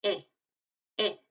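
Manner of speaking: E sounded like Spanish I; Portuguese E said as I. Shown as a demonstration. Teacher shows the letter E sounding like I. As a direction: say E like a short ee. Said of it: "en vez de E".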